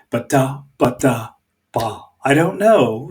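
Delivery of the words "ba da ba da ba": BA-da BA-da BA, tapping the rhythm; tentative rhythm chant; testing a beat. Shown as a demonstration. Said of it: "there might be something there".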